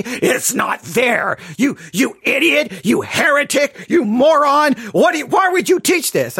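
mock shout of idiot, heretic, moron; hammed-up outraged critic; rising mock outrage, partly shouted; imitating yelling critics. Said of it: "while you're yelling and screaming".

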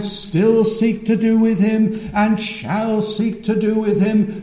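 very slow, weighty pulpit cadence; triumphant preaching. Real, not acted. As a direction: draw out the key words with full assurance. Preaching Christ enthroned.

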